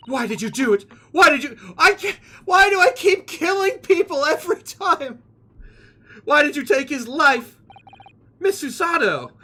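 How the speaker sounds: high-pitched distraught questioning; mock anguish. Player and accuser ask why he kills, mock anguish. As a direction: wail it with hammed-up distress.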